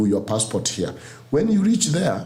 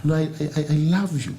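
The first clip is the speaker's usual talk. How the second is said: higher, laughing gushing compliment; gushing admirer; 5 semitones higher than usual. Retold or imitated. Americans complimenting the Kenyan speaker, higher and gushing. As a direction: gush over his teeth with a laugh. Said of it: "somebody can look to you and say".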